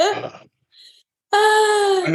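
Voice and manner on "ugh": mock frustrated "ugh"; exasperated groan. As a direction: groan as if fed up with waiting. Acting out impatient frustration.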